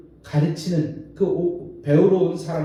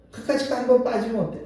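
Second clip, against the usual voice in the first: fast, higher careless scoff; mocking scoff; 6 semitones higher, faster than usual. Worldly person shrugs off missing Sunday, careless and mocking. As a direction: toss it off as if worship were nothing. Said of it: "이렇게 우습게 여겨요".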